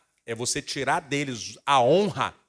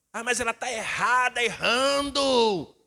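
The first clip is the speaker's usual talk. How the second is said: put-on higher, drawn-out complaining teen; whiny son; 7 semitones higher, slower than usual. Son complaining to his father about his sister. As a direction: protest like a sulky boy.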